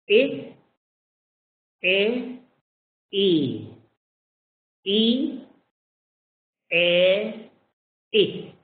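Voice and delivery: e repeated, pitch jumping; repeated short e drill. Shown as a demonstration. Teacher drills the short e for the class. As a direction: drill the e sound again and again. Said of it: "this is e short".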